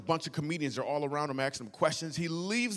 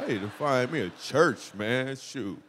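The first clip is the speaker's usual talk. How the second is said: over-eager agreement; 2 semitones lower, 4 dB louder, slower than usual. Retold or imitated. Eager yes to the beautiful woman.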